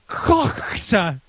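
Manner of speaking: kokta with a long throaty first syllable; exaggerated pronunciation. Shown as a demonstration. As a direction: stretch the middle of kokta in the throat. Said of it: "you gotta roll your tongue".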